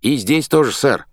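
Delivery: high-pitched eager exclamation; excited cry. A narrator's reading. Khrenov answers his captain, crying out excitedly. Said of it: "вскричал Хренов".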